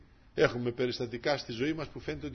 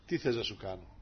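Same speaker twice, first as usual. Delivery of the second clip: softer, lower tender question; gentle Lord; 4 semitones lower, 4 dB quieter than usual. Acted. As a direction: ask it softly like the Lord. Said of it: "Έτσι δεν μας λέει ο Κύριος". (ως ο Κύριος, τρυφερά και σιγανά)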